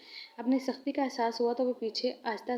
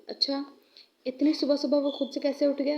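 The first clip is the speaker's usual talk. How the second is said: lifted, louder mother's surprise; a mother amazed her son woke early; surprised; 4 semitones higher, 4 dB louder than usual. A narrator's reading. Mother-in-law surprised her son is already up, asking. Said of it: "हैरत से बोली".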